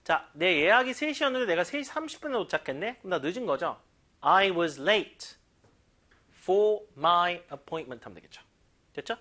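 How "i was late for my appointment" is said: slow model reading. Shown as a demonstration. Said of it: "model sentence".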